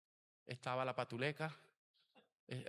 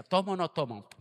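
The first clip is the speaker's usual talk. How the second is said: higher, louder mock dithering; torn like a kitten; 6 semitones higher, 10 dB louder than usual. Retelling his temptation to the pastor, playfully torn. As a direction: act out the tempted hesitation, a touch hammed-up. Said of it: "como el gatico".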